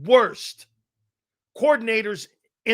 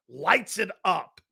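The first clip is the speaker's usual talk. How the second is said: slow, dry "Lights it up" with the fall on "it"; sarcastic repeat; slower than usual. Retold or imitated. Host mocking the Eagles offense, slow sarcastic repeat. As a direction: drag "Lights it up" out slowly, deadpan. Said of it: "Light that shitty offense up".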